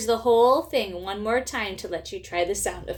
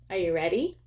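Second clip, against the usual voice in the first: put-on hushed, breathy whisper to the kids; spooky whisper; 6 semitones lower, 5 dB quieter, faster than usual. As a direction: whisper it like a secret before a ghost story. Teacher whispers before spooky story.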